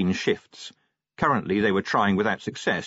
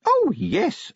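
imp voice; 3 dB louder than usual. Acted. Imp speaking in story.

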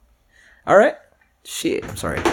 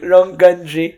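slow, higher, louder echo; drawn-out echo; 5 semitones higher, 6 dB louder, much slower than usual. Acted. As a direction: drag out wrong country teasingly. Echoing the correction slowly.

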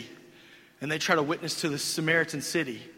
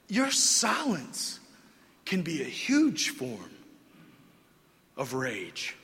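slow emphasis; much slower than usual. Real, not acted. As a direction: let each phrase land slowly. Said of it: "slow deliberate emphasis".

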